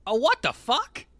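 high, loud, slow, hammed-up fake shock; bad amateur actor. Shown as a demonstration. Recording a sound clip for friends, loud, slow, hammed-up fake shock. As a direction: ham up the stilted horror-movie gasp, slowly and loudly. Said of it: "get a clean, a clean take".

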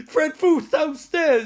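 high, loud, stretched-out retelling; loud gleeful drawl; amused announcement. Retold or imitated. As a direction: crow over the fall, loud and slow. Repeats the fall after laughing.

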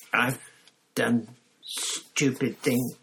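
slow, strained, breathy confession; breathed. A narrator's reading. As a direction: breathe it out in despair. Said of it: "Mister Crouch breathed".

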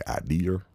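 IDEA said as "idear"; R on the end. Retold or imitated. Bothered by how people say it, IDEA with an R. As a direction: close IDEA on a clear R. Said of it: "With the R".

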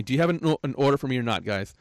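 same question, firm but calmer; firm customer asking again, calmer; calmer repeat. Shown as a demonstration. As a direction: show it wasn't rude, evenly. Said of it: "I just said it just like you heard me".

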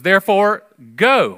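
ringing pulpit call to go; preached proclamation. Acted. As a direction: proclaim it to the congregation. Preacher proclaiming Great Commission text.

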